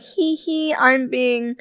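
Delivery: lightly put-on coy giggle-talk; mock cutesy. Mocking the customer who made the elf remark, cutesy. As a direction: mimic someone playing cute.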